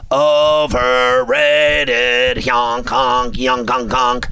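slow, goofy clown voice; silly clown. Acted. Mocking the Sooners.

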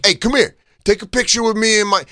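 high, loud, pushy call; yelled demand. Retold or imitated. Fans yelling at Sal, imitated loud demand. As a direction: holler him over for a photo. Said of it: "I watched Sal get yelled at".

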